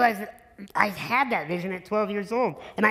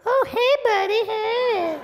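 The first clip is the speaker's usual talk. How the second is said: much higher, sing-song buddy voice; chummy greeting; 14 semitones higher, 4 dB louder, slower than usual. Retold or imitated. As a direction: play the president's breezy hello. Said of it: "And he went".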